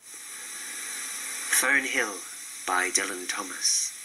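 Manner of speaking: ordinary talk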